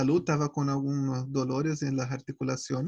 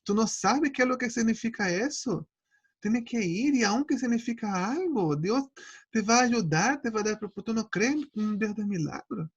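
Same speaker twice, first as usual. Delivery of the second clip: a hint of a higher, scolding spouse voice; spouse scolding gently; 5 semitones higher than usual. Spouse challenges his despair at the test, light scolding voice. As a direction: lightly voice the spouse pushing back. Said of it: "Y él me dijo".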